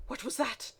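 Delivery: ordinary delivery, nothing marked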